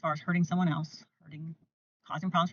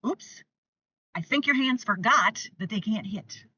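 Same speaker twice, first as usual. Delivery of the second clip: playful; 3 semitones higher than usual. Shown as a demonstration. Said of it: "keep a little sense of humor".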